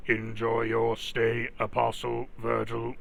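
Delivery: steady mechanical guard voice; robot voice. Acted. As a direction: speak as a stiff security robot. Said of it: "Oh, that robot voice".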